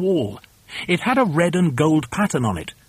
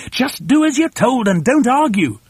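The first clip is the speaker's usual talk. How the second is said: high, impatient bossy order; high-pitched exasperated command; commanding shout; 8 semitones higher, 4 dB louder than usual. A narrator's reading. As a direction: order them about, brooking no argument. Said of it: "shouted Mugglewump".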